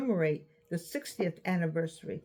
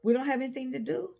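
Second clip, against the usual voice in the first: voicing her own mind; 4 semitones higher than usual. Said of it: "your mind will say".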